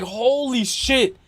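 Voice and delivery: slow, stunned exclamation; drawn-out holy shit. Retold or imitated. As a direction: let it hang in shock. Retold shock.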